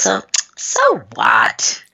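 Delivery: slow, level so what from mom; mom's calm so what. Retold or imitated. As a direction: say it slowly, unbothered, looking her in the eye. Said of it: "she looks at me straight in the eye and she goes".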